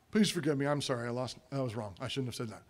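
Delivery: low, hushed admission of wrong; quiet apology. Acted. Spouse apologises before opening door to guests, low and hushed.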